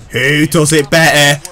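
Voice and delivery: boastful challenge to viewers. Real, not acted. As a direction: throw the question out as a brag.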